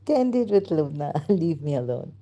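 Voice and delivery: giggly mock plea to be left alone; laughing. Real, not acted. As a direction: laugh helplessly while begging off. Laughing at own mistake.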